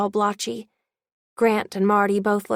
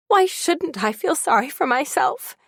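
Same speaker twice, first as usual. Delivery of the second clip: higher, pained outcry; cried out; 6 semitones higher than usual. Acted. Mother cries out at grandma, higher and pained. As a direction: hurl the self-pity back at her. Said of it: "she cried".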